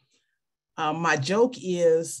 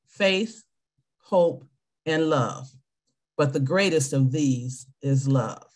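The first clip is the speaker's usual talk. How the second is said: solemn church reading voice; scripture reading; 2 semitones lower than usual. Acted. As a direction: read the verse with reverence.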